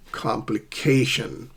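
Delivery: slow "complication" with a stressed CA; stress on second-last syllable. Shown as a demonstration. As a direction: draw out CA in "complication". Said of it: "stress the second last syllable".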